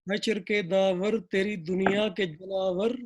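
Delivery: measured, deliberate mushaira delivery; Urdu ghazal recitation. Acted. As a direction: recite the couplet slowly, drawing out each phrase.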